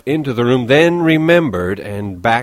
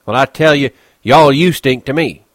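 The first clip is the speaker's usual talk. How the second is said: higher, louder jab back; bitter retort; Crooks, defiant; 6 semitones higher, 9 dB louder than usual. Acted. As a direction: throw the insult right back.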